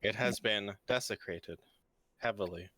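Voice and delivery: glitchy robotic audio; words chopped by a bad connection. Real, not acted. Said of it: "Why do you sound like a robot".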